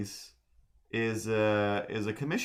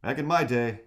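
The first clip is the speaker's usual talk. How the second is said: put-on a touch higher crotchety old-timer; old man voice; 4 semitones higher, 4 dB louder than usual. Streamer retries the old man voice, slightly higher. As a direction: grumble it like a grandpa. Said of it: "trying to do that old man voice".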